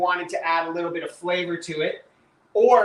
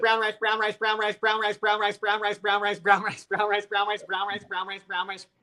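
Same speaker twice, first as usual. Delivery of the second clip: rapid-fire, as fast as possible, much quieter; 3 semitones higher, 3 dB quieter than usual. Taking a turn at a speed-talk challenge, saying it as fast as possible. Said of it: "say brown rice as fast as you can".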